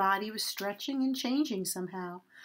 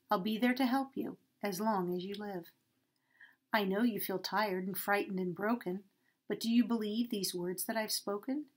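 calm and mysterious. Acted. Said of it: "in a calm and mysterious way".

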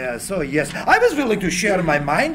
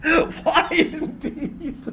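wry laugh; 7 semitones higher, 3 dB quieter, much slower than usual. Acted. Tesla laughs at the question.

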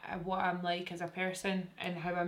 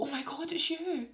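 mock starstruck; 10 semitones higher than usual. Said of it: "I'll go".

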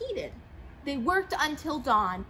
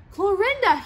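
urgent call; 7 semitones higher, 8 dB louder than usual. A narrator's reading. Frightened pig calls the cow.

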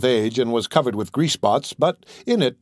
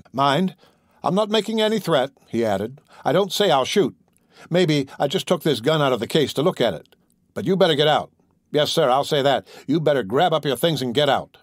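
calm turning angry; 2 semitones higher than usual. Acted. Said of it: "The young storekeeper's voice rose to a scream".

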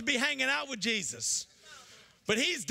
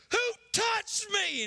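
Jesus hollering; 5 semitones higher, slower than usual. Acted. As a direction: call out over the whole crowd. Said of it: "Jesus hollers".

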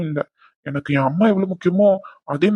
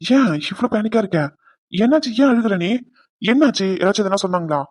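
raised pitch, urgent questions; alarmed concern. Acted. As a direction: ask anxiously why she is crying. Husband alarmed by wife crying. (பதறிப்போய் அக்கறையோடு)

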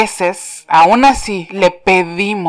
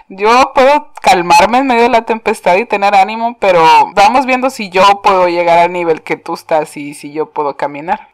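voicing Peter; 4 dB louder than usual. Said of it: "el Pedro dice".

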